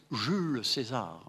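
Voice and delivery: Jules César said the French way; French-sounding Jules César; French pronunciation. Shown as a demonstration. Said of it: "les Français disent".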